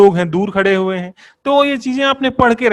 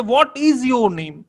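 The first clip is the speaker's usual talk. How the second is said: very slow, each word spaced; slow example question; 2 semitones higher, much slower than usual. Shown as a demonstration. Teacher reading an example question slowly to the class. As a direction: ask it word by word. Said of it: "अब example ले लीजिए".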